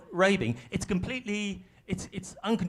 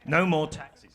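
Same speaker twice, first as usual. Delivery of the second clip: "No more taxes" loud, on strong beats; "No more taxes" as an emphatic three-word slogan; strong political beats; 5 dB louder, slower than usual. Shown as a demonstration. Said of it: "They're kind of strong beats".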